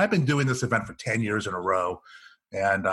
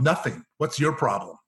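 ordinary talk, nothing marked

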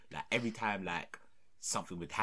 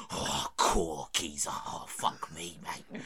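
put-on East End accent; 3 semitones lower, 5 dB louder, much slower than usual. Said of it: "get into an East End pub brawl".

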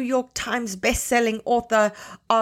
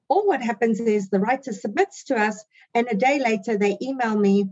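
lightly voiced stern schoolteacher; a hint of a strict teacher scolding. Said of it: "I am going to put on my strict teacher's voice".

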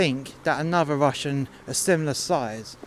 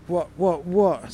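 higher-pitched mock challenge; retold shouting; 4 semitones higher, 4 dB louder, slower than usual. Shoved kid squaring up to the Russian, mock shouting. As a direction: imitate the kid's indignant shouting. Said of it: "was shouting".

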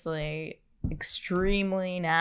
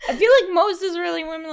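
laughing; 12 semitones higher, 9 dB louder, much faster than usual. Real, not acted. Laughing high burst.

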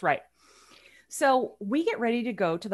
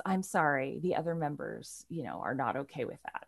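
hostess apology; 7 semitones lower, 7 dB quieter than usual. Retold or imitated. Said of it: "she says".

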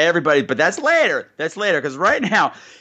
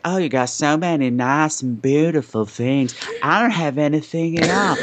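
put-on Arkansas hill accent. Imitating the newcomer admiring the room, Arkansas accent. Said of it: "Patrick's got that accent just about right".

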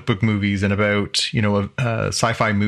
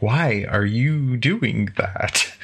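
slow, drawn-out mock bafflement; baffled disbelief; much slower than usual. Host recalls reacting to an actor's pseudo-British accent, baffled. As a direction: stretch each word in puzzled disbelief.

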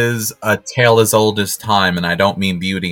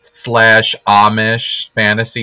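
sassy drawl; 5 semitones higher, slower than usual. Real, not acted. Drawn-out sassy commentary.

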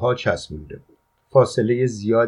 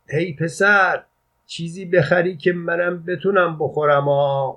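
raised high to carry across the street; calling out; 7 semitones higher than usual. A narrator's reading. Father calling across the street to his son, shouting. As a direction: shout after the boy down the road. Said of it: "دوباره داد زد".

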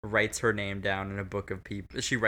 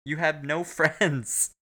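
mock scolding; 5 semitones higher than usual. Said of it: "I'm like".

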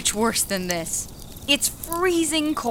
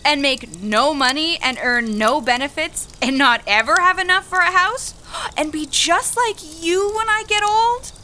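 rising bitter rant, getting higher and angrier; angry outburst; 3 semitones higher, 4 dB louder than usual. Acted. Young worker blaming the older woman, angry building rant. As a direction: throw the blame at her, building anger.

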